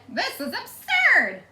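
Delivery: stern Eugenia. Acted. Eugenia scolding her sister over the piglet, slow and haughty. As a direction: pronounce it with prim outrage.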